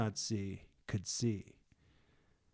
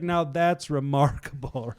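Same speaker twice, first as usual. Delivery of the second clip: louder, higher feigned amazement; mock sarcasm; 4 semitones higher, 7 dB louder than usual. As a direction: play it as sarcastic wonder.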